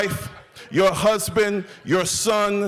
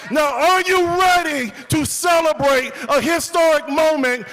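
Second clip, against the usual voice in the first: rally hype speech; 6 semitones higher than usual. Real, not acted. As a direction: fire up the crowd, voice raised, word by word. Fires up the rally crowd.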